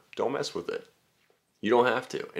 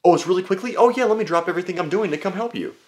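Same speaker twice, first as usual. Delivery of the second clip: high, sarcastic yes-man voice; mocking the reply they expect; 11 semitones higher, 4 dB louder than usual. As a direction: drip with fake eagerness. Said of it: "manipulate me to respond like".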